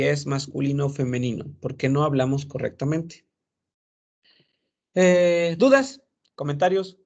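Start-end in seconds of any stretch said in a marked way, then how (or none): 4.9-7.0 calling out. Real, not acted. Teacher calling on class.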